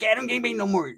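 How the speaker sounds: high, muffled squeaky denial. Retold or imitated. Mustached homeboy explaining himself, high muffled squeak. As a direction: squeak it as if a mustache blocks the sound. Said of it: "a squeaky voice".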